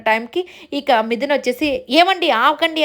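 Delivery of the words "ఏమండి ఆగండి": a mock yell to halt the blow; wife stopping her husband from hitting, mock shout; retold shout. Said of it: "గట్టిగా అరిచి ఆపేస్తుంది".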